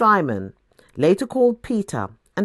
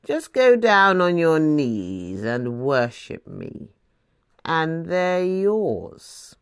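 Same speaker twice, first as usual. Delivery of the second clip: seductive devil; 2 semitones lower, much slower than usual. Acted. The devil offering Jesus all the kingdoms, slow seductive bargain. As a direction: lay the offer out slowly, savouring it.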